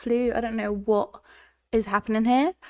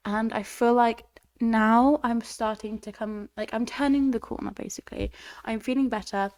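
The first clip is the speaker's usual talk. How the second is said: congested, sick voice; talking through a heavy cold. Real, not acted. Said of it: "you can still hear it in my voice".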